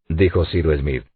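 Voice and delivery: ordinary delivery, nothing marked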